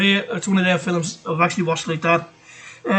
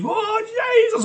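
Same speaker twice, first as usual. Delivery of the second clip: startled yelp; much slower than usual. Retold or imitated. Retelling being scared by Psycho.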